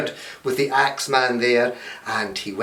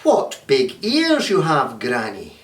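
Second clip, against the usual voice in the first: Red Riding Hood; slower than usual. Acted. Girl notices Granny's ears.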